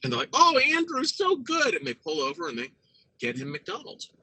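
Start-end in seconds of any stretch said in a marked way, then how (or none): 0.3-1.8 high, slow gushing parent voice; mock-sweet gushing praise; doting parents. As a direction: coo it like a doting mother.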